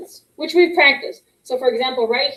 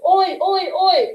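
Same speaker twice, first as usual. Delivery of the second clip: annoyed oi; 4 semitones higher, much slower than usual. Shown as a demonstration. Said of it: "This face looks a little annoyed".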